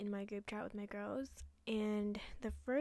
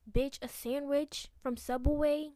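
louder, higher, slowed, incredulous; outraged disbelief; 4 semitones higher, 7 dB louder, slower than usual. Real, not acted. Ranting to listeners about the foot long joke, outraged disbelief. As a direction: spit out the absurdity.

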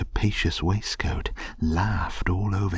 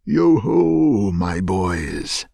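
jovial voice; 8 dB louder, much slower than usual. A narrator's reading. Old master rallying his apprentices, jovial shout. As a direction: holler merrily to the boys. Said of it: "jovial voice".

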